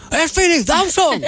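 high, slow, starstruck cry; excited recognition. Retold or imitated. Wedding guest spotting the movie star, excited cry. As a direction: gasp it out like a fan.

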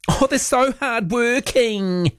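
sarcastic mock. Mocking royal fans' praise.

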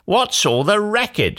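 high-pitched Cindy voice; high, girlish storybook cry. A narrator's reading. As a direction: call out a puzzled question. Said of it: "Cindy cried".

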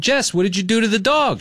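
high accusing alarm at Jess; retold alarmed question. Owner demanding Jess explain what happened to the dog, high alarmed.

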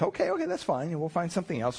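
a patient shop clerk pleasing the customer; humoring clerk. Retold or imitated.

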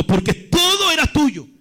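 preacher acting a prophet's reproach; emphatic accusing questions, driven home phrase by phrase; Natán. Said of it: "Le dijo". (reproche enfático de profeta)

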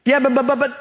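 high, stammering objection; Moses. Acted. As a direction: play a reluctant prophet sputtering excuses. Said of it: "he stuttered".

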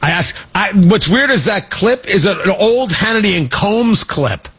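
normal talking voice

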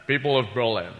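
a hint of a Scottish lisp on "citizen" as Kennedy; lightly voiced Connery playing Kennedy; Scottish Kennedy with slurred s; Sean Connery doing Kennedy. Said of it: "Sean Connery doing, uh, President Kennedy".

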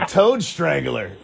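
slow, drawn-out repetition; savoring the phrase. Real, not acted. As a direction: stretch the words out in wonder. Host savors the new phrase.

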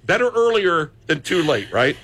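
laughing through the words; chuckling while talking. Real, not acted. Joking host laughing about drinking.

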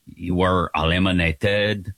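lightly put-on, low French accent; hammy mock-French accent; terrible French accent. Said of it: "I'll do this terrible accent and say".

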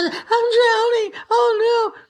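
high, slow, panicked cry of a sinking man; drowning Peter crying out. Retold or imitated. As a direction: wail it like you're going under. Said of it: "So there's Peter".

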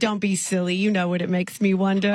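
lightly put-on English accent calling a stranger "love"; sweet English caller, accent worn lightly; British accent. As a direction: play a chatty Englishwoman with a mild accent. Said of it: "I'm from England".

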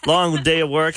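ordinary delivery

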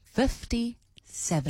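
slow, drawn-out clue voice. Pretend. Co-host repeating the clue for listeners, slow clue voice. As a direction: stretch the number out as a mysterious clue. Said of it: "don't do the clue voice".

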